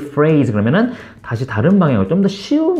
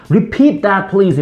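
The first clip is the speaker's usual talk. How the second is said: commanding; 5 semitones higher, much slower than usual. Shown as a demonstration. Teacher shows the too-bossy way to ask, commanding. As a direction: bark it like a demand. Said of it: "너무 이제 명령적으로 하실 필요는 없고요".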